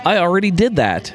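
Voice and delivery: put-on shouting it proudly like a kid; excited kid shout. Kid's reply in story.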